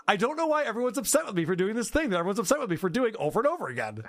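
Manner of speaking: mock whiny. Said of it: "and goes".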